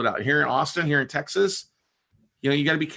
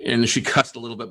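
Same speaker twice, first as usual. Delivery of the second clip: ordinary delivery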